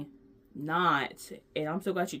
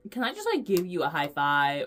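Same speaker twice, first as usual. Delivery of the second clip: eager request; 4 dB louder than usual. Retold or imitated. Asking the clerk for high five.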